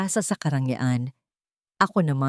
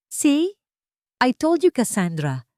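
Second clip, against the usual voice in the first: smug, higher brag that starts on a sharp high See; boasting; 8 semitones higher, 3 dB louder than usual. A narrator's reading. Marco gloating to Cassandra on the phone, smug and boastful. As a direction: gloat into the phone like you were right all along. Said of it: "pagyayabang niya sa telepono".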